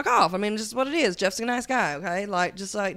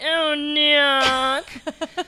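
high swooning moan of a name; 5 semitones higher, 3 dB louder than usual. Acted. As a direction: swoon over the name, higher.

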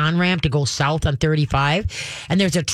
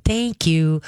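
calm thank you. Shown as a demonstration. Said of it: "you very calmly go".

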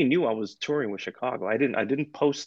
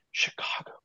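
tearful near-whisper; 6 dB quieter than usual. Retold or imitated. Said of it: "And the way she said it".

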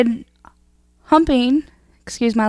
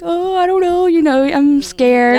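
mock scared; 3 semitones higher than usual. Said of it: "I was like".

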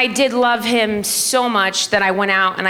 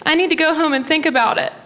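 high, quick mom voice; fast high-pitched imitation of mom; mom impression; 8 semitones higher, faster than usual. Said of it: "She goes".

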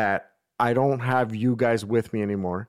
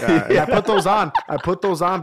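talking through real laughter, louder at first; laughing; 7 semitones higher, 6 dB louder than usual. Real, not acted. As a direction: get the words out while laughing, then settle. Laughing while explaining the sunglasses.

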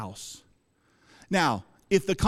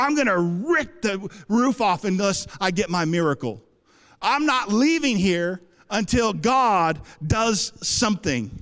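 fervent, determined declaration of faith. Retold or imitated. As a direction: dig in with insistent zeal. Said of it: "that type of fervency".

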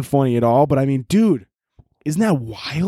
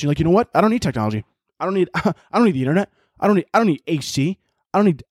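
Gary Vee impression. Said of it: "Gary Vee, like, talking to his tribe, be like".

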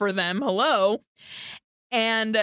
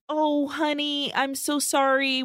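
tender apology; 3 semitones higher than usual. Retold or imitated. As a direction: coo it like comforting a loved one. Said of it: "with his hands extended out".

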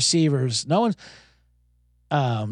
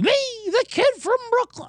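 high hammed-up Brooklyn hero; Brooklyn kid voice. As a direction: belt it like a cheesy stage tough guy. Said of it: "I could do that voice all night".

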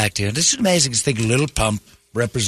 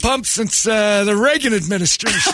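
put-on high, fast old-man voice; a pitched-up doddering Joe Biden, rushing; old president voice, pitched well up; Biden impression; 10 semitones higher than usual. Biden impression, pump joke.

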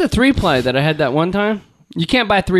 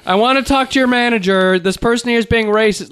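entitled white guy; 6 semitones higher than usual. Retold or imitated. White shopper calling for the manager, a hammed-up demand. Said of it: "the white guy going".

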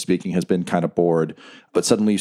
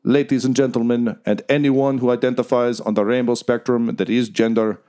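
arena announcer; 3 semitones higher than usual. Acted. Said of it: "Reznov says".

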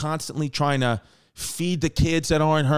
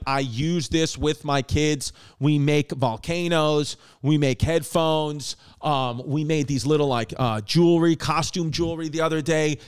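ad read. Acted. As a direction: sell it to parents with bright enthusiasm. Host reads a sponsor ad.

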